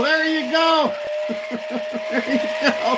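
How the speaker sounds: lingering high put-on voice; Elon voice. Streamer still in his Elon Musk voice. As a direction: stay in the impression a moment longer.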